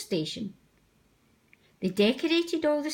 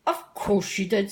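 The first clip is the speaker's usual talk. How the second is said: smiling. Acted. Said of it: "smiled the Fat Controller".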